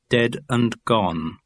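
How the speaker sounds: slow, evenly spaced dictionary read; measured headword into a microphone; absolutely straight. A narrator's reading. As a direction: give each word with no colouring. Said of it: "have to be spoken absolutely straight".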